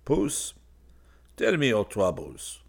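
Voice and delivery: coaxing, very gentle invitation. A narrator's reading. Severn to the stray cat, very gently. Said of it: "he began again very gently".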